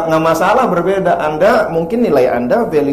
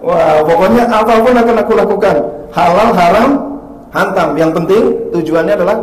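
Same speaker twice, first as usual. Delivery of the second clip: loud, higher mock bravado; hammed-up reckless promise; reckless husband; 4 semitones higher, 5 dB louder than usual. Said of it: "Kata suaminya". (suami nekat, keras dan lantang)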